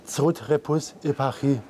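German sentence spoken backwards; backwards speech. Shown as a demonstration. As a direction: say "Zrut repus eparchie" as reversed German. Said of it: "sag mal einen Satz".

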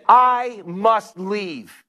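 slow, deliberate indignation; retold anger. Preacher retelling Rhonda's angry exit, slow and emphatic. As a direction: space out each word firmly, imitating an angry woman. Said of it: "She got angry".

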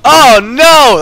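loud, high put-on game villain voice; deadly cyber voice. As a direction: cry it out in a mock character voice. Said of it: "Do deadly cyber voice".

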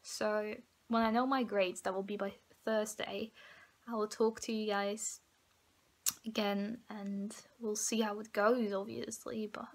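soft, half-whispered, fighting tears; scared and emotional. Real, not acted. Vlogger tells viewers her fear about failing retakes, quietly near tears. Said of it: "You see, I'm getting emotional right now".

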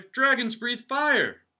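very high, loud and slow bellow; furious shout. Acted. Father shouting at his son over whipped cream, furious. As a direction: roar it out at your son. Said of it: "shouted his father".

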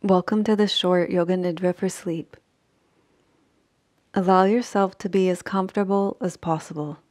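unhurried sleep-meditation voice with long pauses; measured Yoga Nidra guidance, phrase by phrase; guided meditation. Acted. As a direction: guide them gently into rest, leaving long silences.

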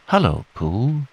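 lightly voiced little squeak; a hint of an excited little joey; squeaky Roo. Roo greeting Pooh at the party, squeaky. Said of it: "he squeaked".

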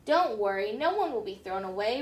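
a hint of gentle reassurance; reassuring. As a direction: soothe the worried toys. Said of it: "Woody reassured them".

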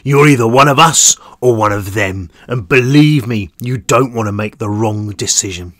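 big man's menacing warning; threatening giant. Acted. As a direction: warn him, looming over. Giant man warns prisoner.

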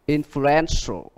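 Influential slowly, stress on EN; teacher's slow model, Influ-EN-tial; stress on third syllable. Shown as a demonstration. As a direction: draw out Influential, leaning on EN. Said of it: "hai và ba".

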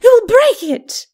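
high, sharp lady's protest; high-pitched, alarmed ladyship. Acted. Lady protests as arm is seized.

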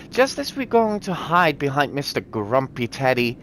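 lightly voiced child reading a diary; a hint of a little child telling a secret; child's diary voice. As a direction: read it like a small kid's note, a touch sing-song. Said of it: "why am I talking like this?".

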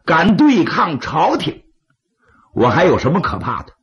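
defiant bandit chief, rising to a shout; proud outlaw dismissing a guest; gravelly dramatic storyteller. Acted.

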